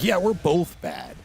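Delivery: slow, lightly voiced clown; silly clown. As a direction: drawl it like a goofy clown. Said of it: "He's like".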